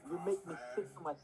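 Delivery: lightly imitated Toronto accent. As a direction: playfully mimic Toronto slang accent. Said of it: "I love Toronto".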